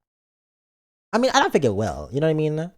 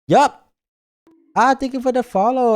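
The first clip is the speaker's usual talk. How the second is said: excited; 9 semitones higher, 6 dB louder than usual. Real, not acted. Excited thanks.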